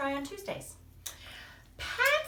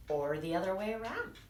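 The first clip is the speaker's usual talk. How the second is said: calm mother; 3 semitones lower than usual. Acted. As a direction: answer gently like a mother. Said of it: "said Mother Monster".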